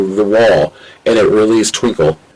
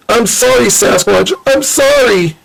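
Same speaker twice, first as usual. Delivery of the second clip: crying apology; 13 semitones higher than usual. Acted. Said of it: "That's when Ratchet started to cry".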